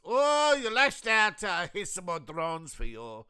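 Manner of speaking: mocking high sneer; mock Russia. Russia answering Ukraine, mocking high sneer. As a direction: sneer it back like a smug bully. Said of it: "Russia says".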